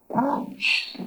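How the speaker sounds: Chuch said high and half breathed; isolated syllable. Shown as a demonstration. Teacher repeats a syllable for students, high and breathy. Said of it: "Dense cuenta cómo lo voy a pronunciar".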